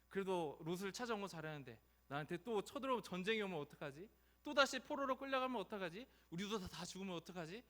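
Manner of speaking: mildly anxious inner voice; fretting. Acted. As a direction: worries piling up, acted out. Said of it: "이런 고민이, 두려움이". (걱정하듯)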